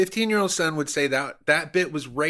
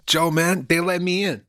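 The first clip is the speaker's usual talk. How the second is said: hammed-up Scarface-style Cuban accent, a bit higher; mock Cuban accent; 5 semitones higher, 4 dB louder than usual. Comedian bragging to cohost about being inside Hollywood, in a mock Cuban accent. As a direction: play a fake Hollywood Cuban tough guy in a Cuban accent. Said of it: "I was using an accent".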